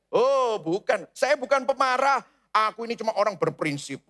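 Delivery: a hint of an offended hothead; indignant denial. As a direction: bristle at being called angry. Sinner denying a temper.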